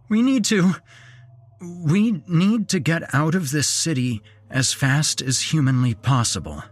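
high, strained urging with a false start; a scared man forcing himself to speak; forced out urgently. Acted. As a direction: push the words out through fear. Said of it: "forcing myself to talk".

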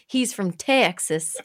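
a slow, hammed-up Texas drawl, done badly; bad Texas accent. Shown as a demonstration. Host jokingly re-says the guest's home state in bad Texas accent. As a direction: overdo a Texan twang and miss it. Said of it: "I probably am not doing that very well".

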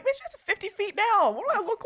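mock outraged comeback; exasperated retort. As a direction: throw the question back in disbelief. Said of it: "I'm like".

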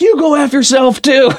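light imitation of an angry comeback; retold swearing. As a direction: fire back the insult. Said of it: "So he's yelling at me".

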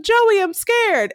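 imitating a scared woman, high and drawn out; mock frightened plea. Overdosing woman begs the man for help, lightly acted fear.

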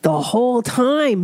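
normal talking voice

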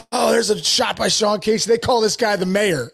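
lightly done TV announcer call. Retold or imitated. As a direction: call the hit like a broadcaster. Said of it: "He's like".

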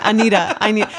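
Anita in a Long Island accent. Real, not acted. Explains the name to co-host, Long Island accent. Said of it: "That's my Long Island accent".

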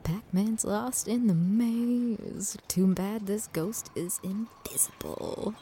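whispered, slow documentary narration; hushed nature documentary. Pretend. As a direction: whisper like a wildlife host. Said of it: "in his natural habitat".

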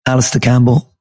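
hoarse, croaky voice. Real, not acted. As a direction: talk through a croaky, worn-out throat. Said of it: "in a very croaky voice".

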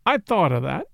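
a hint of grave seriousness in an altered voice; gravely. A narrator's reading. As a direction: answer heavily, weighing each word. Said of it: "Bill answered gravely".

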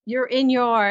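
acted hesitation, hunting for the right word; searching for words. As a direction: trail off before the delicate word. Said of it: "she pauses looking for the right word".

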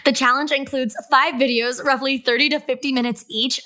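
bright promotional voice; ad read. Acted. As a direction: pitch it like a sponsor spot. Ad read continues.

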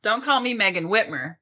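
spitting while talking; spraying spit on the name; spit take. Real, not acted. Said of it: "Just spit everywhere".

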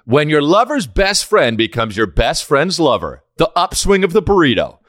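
slow, dramatic movie-trailer read; mock trailer voice. Pitching a fake burrito movie to his friend, in a slow trailer voice. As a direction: sell it like a cheesy romance trailer.

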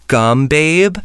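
quoting him through a laugh. Retold or imitated. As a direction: say it while laughing. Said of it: "he just says".

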